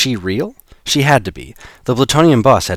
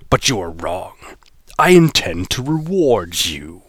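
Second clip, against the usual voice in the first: a hint of a gloating villain; lightly voiced menacing boss.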